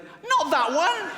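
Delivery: high, loud, slow yell; a host mortified at his guest's joke; panicked shout. Retold or imitated. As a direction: stop him before it lands. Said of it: "he went".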